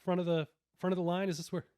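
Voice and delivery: put-on casual British accent on a quick question. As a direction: imitate a London bloke asking, British accent. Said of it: "with a British accent".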